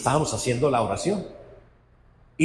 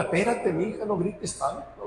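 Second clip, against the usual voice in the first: softer, teasing hush; mock calming a shouter; 4 semitones higher, 4 dB quieter than usual. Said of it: "Ay, vieja gritona". (calmando a la gritona, más suave)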